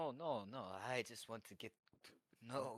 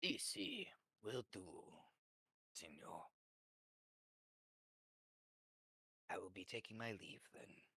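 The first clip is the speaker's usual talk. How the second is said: bad Spanish accent. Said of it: "horrible Spanish accent".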